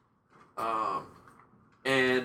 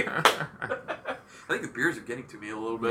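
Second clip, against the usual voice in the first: laughing through the words; chuckling while talking. Real, not acted. Laughs about beers getting to him.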